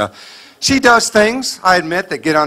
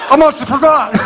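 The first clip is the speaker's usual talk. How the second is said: meek husband giving in; 9 semitones higher, 3 dB louder than usual. Pretend.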